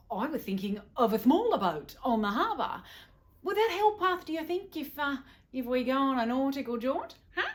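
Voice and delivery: put-on high, loud, childish pleading; hesitant, hopeful husband. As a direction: coax her like an eager little boy. Husband replies to wife in character voice.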